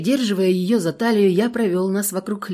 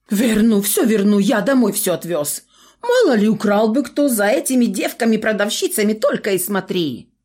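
frightened promising; 4 semitones higher, 4 dB louder than usual. A narrator's reading.

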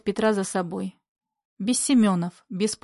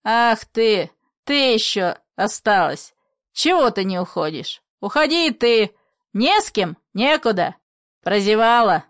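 angry shouting; 4 dB louder than usual. Acted. Father shouting at daughter.

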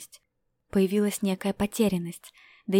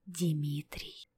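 a fading, much softer whispered name; faint whisper; 5 semitones lower, 8 dB quieter than usual. A narrator's reading. Apollinary whispering the name again, fading. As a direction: barely breathe the name out, lower and softer. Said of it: "прошептал он в ужасе".

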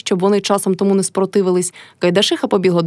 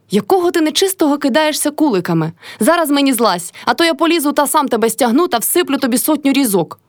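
higher, stern shout up at the roof; 6 semitones higher than usual. A narrator's reading. Village elder shouting at Lavrin on the roof. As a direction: order him down sharply. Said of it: "кричав волосний".

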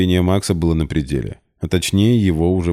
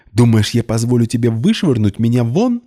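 much higher, louder shriek; screeching; 7 semitones higher, 4 dB louder than usual. A narrator's reading. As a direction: screech at him. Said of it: "снова заверещала Полина". (заверещала, высоко и громко)

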